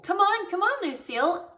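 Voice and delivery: high, loud, excited coaxing; eager urging. A narrator's reading. Girl pulls friend toward desks, eager urging. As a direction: hurry a friend along eagerly. Pulling friend along by the hand.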